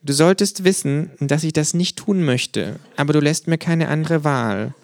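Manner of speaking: höher, langsam drohend; gespielte Drohung. A narrator's reading. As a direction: wie ein Filmschurke drohen. Känguru droht gespielt. (Känguru droht dem Erzähler, gespielt bedrohlich)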